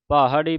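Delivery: ਪਹਾੜੀ with both the bh and the h sounded; careful pronunciation. Shown as a demonstration. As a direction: voice the separate h inside ਪਹਾੜੀ. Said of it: "ਭੱਬੇ ਦੀ ਆਵਾਜ਼ ਤੇ ਹਾਹੇ ਦੀ ਆਵਾਜ਼".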